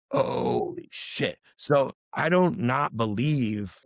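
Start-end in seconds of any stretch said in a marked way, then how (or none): 0.1-1.4 slow, hushed, stunned holy shit; stunned awe. Retold or imitated. Stunned reply to his buddy about the timing. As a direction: let it out slowly in disbelief.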